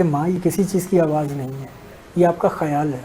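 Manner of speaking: put-on soft, gentle reassurance to his old mother; a son calming his mother, softly and lovingly. Son reassures his bedridden mother, soft and loving. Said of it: "تو بیٹے نے بڑے پیار سے کہا".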